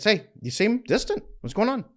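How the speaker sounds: high-pitched, casual imitated concern; light check-in. Wife checking on her distant husband, imitated light check-in. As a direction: toss out a breezy question to a partner, pitched high. Models wife's easy check-in.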